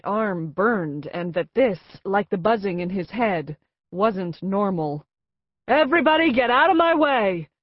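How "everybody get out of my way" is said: loud, high, commanding woman; new woman booms at the crowd to clear the way; booming alto. A narrator's reading. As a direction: boom the order. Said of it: "new and husky, a musical and temporarily booming alto".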